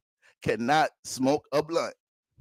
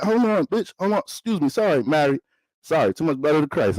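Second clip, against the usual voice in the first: Jesus interrupting; 5 semitones higher than usual. Pretend. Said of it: "Jesus ain't gonna be like".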